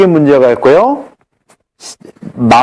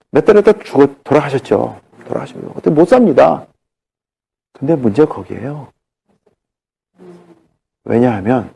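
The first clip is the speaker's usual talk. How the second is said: normal talking voice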